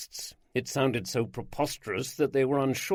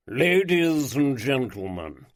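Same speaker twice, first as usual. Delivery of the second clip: slow, louder, grand lordly address; aristocratic drawl; 6 dB louder, slower than usual. Acted. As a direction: open like a showman lord drawling to his guests. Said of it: "in his rich baritone voice with its aristocratic drawl".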